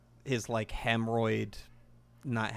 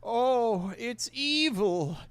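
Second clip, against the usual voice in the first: high, slow gloating voice; high drawn-out gloat; cartoon villain; 11 semitones higher, slower than usual. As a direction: savour the evil like a tiny villain. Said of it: "he's like".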